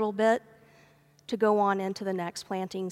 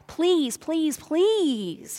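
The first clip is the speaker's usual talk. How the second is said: high, pleading cry of a desperate servant; begging; 6 semitones higher, 3 dB louder, much slower than usual. Retold or imitated. Servant on his knees begging his master, high and pleading. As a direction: plead on your knees for mercy. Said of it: "and he begged".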